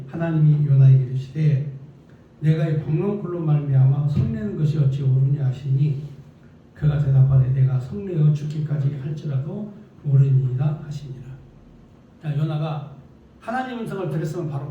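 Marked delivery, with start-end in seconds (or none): 0.1-11.2 low, firm, loud Bible reading; scripture reading. Acted. Preacher reads the verse to the congregation, low formal reading. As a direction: read the verse out solemnly in a lowered voice.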